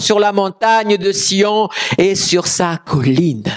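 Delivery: slow, emphatic declaimed verse; scripture proclamation. Acted. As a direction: build the verse high, then let it settle.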